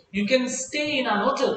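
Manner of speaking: a teacher slowly modelling "an hotel" for learners; slow American example. Shown as a demonstration. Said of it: "If you pronounce it hotel".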